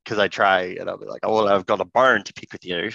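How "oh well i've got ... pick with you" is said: British accent slipping into Australian; a botched, lightly put-on British accent; attempted British accent. Shown as a demonstration. Showing co-hosts his failed try, Australian-sounding British accent. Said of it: "every time I try to do a British accent".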